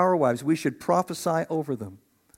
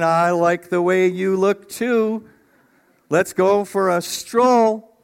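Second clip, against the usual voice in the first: playful Adam; 4 dB louder, slower than usual. Pretend. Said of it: "he's saying".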